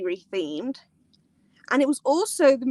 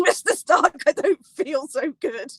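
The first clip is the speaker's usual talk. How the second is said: Tom Holland line; 3 semitones higher, 4 dB louder, slower than usual. Retold or imitated. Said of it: "it says".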